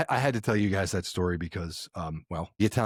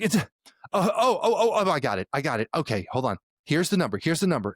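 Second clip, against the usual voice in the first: high, tumbling "oh, oh, I got it"; excited mom; 6 semitones higher than usual. Retold or imitated. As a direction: mom suddenly finds the code, voice shooting up. Mom finding the code.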